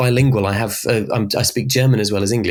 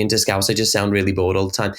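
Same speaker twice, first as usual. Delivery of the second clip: "really bored all the time" on one low, level note; monotonous prosody; 3 semitones lower than usual. Shown as a demonstration. Demonstrating southern prosody put into Scouse, monotone "really bored all the time". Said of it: "that kind of monotonous prosody".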